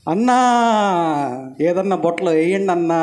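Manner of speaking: drawn-out pleading call to the men in the boat; boy calling out. Retold or imitated. Boy on the roof begging the boat crew, long drawn-out call. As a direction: stretch the first word into a long plea. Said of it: "అని పిలిచాడు".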